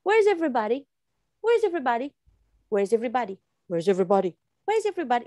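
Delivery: shifting pitch on each try, mock Rachel; lightly voiced Rachel, teacher demonstrating; acting like Rachel. Shown as a demonstration. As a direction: try the line different ways like the character. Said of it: "act like Rachel or the Jennifer here".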